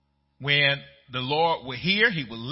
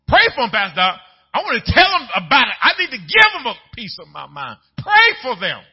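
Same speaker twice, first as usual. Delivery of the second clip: higher, louder heated protest; mock protest; 8 semitones higher, 10 dB louder than usual. Church member objecting to Pastor Doc, loud protest. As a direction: argue back with the pastor. Congregant resisting the command.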